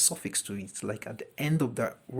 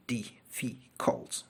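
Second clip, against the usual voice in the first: difficult breathed out slowly, syllable by syllable; teacher demo of difficult, slow and hushed; slow whispered syllables; 4 dB quieter, much slower than usual. Shown as a demonstration. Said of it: "They're more than two syllables".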